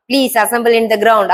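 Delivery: each word drawn out very slowly for the class; slow dictation. Shown as a demonstration. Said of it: "அப்படின்னு தான் சொல்லுவோம்". (மிக மெதுவாக dictation சொல்வது)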